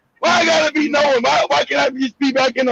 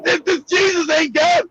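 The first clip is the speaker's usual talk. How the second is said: anguished cry; 3 semitones higher than usual. Retold or imitated. Retold crying in dorm.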